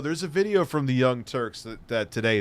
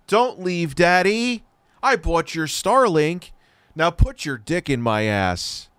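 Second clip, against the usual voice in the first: raised, lightly hammed-up begging; mock panicked pleading; 3 semitones higher than usual. Streamer imitating a YouTuber begging Elon to stay, mock pleading. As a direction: imitate a clingy fan pleading, a bit high. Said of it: "'cause he's panicking. He's like".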